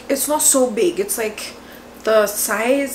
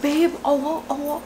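urgent call; 5 semitones higher than usual. Retold or imitated. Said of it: "I was calling my husband".

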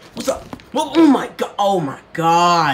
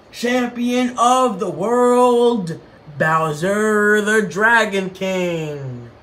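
slow, drawn-out fight announcer; announcing the heavyweight champion to the crowd; ring announcer; slower than usual. Acted. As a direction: stretch it out like a boxing ring intro.

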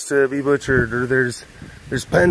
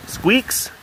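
much higher coaxing call; calling a pet; 11 semitones higher than usual. Real, not acted. Calling the pet by name, high and coaxing. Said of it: "calls the animal a second time".

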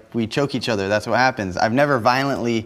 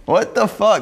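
angry outburst; 8 semitones higher, much slower than usual. Real, not acted. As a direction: drag it out in disbelief and anger. Outraged reaction to accusation.

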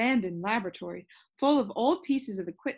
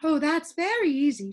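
higher, louder easy reassurance; the sound keeper answering Milo, higher and louder; breezy sound keeper; 6 semitones higher, 5 dB louder than usual. Acted. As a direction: brush the question off lightly. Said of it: "she said".

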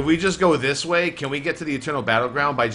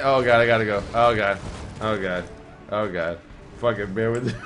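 fading dismay; 5 semitones lower, 3 dB quieter than usual. Real, not acted. Fleeing, fading groan.

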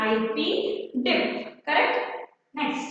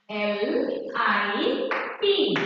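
spelling out slowly; 3 semitones lower, much slower than usual. Shown as a demonstration.

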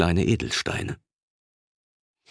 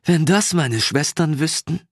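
bursting out laughing; 9 semitones higher than usual. Acted. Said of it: "Sie prustete wieder los".

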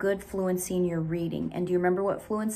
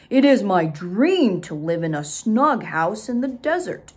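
louder, eager bear voice; 5 dB louder than usual. Acted. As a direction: bear invites beaver, proud. Bear speaks to Beaver.

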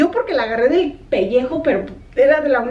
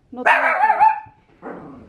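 dramatic emphasis; much slower than usual. Acted. Stressing the missing collar.

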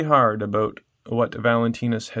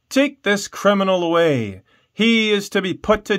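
a higher, sharp command that settles into a cold sentence; angry order; 8 semitones higher, 4 dB louder than usual. Acted. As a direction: order the guards, angered.

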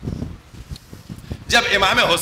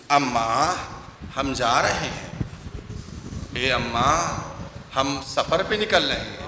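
much lower and softer, a son's grieving goodbye; lowered, soft grieving voice, almost broken; hushed farewell; 8 semitones lower, 7 dB quieter than usual. Acted. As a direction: murmur it low at his mother's grave. Husain's imagined farewell at grave.

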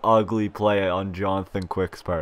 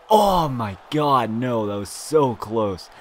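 ordinary delivery

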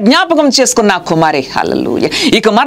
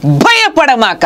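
higher, very slow gentle voice of God; the Lord comforting; 7 semitones higher than usual. Retold or imitated. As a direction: speak God's promise slowly and tenderly from above. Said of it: "ప్రభు చెప్తున్నారు నాతో". (ప్రభువు స్వరంలో నెమ్మదిగా, ఎత్తైన ఆదరణ)

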